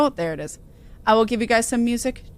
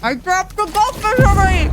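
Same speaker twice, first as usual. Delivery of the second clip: high, loud sudden yelp; surprised; 10 semitones higher, 6 dB louder than usual. Real, not acted. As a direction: cry out in dismay. Dropped snack, exclaims.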